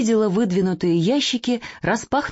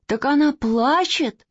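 mild exclaim; 8 semitones higher, slower than usual. Acted. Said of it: "закричал Костя Реутов".

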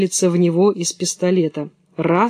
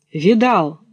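deer voice. Acted. Deer answers, different voice.

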